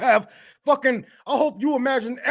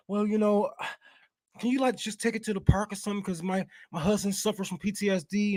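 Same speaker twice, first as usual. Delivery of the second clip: mock polite neighbor; 2 semitones lower, 8 dB quieter than usual. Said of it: "wife gonna come down the street talking about".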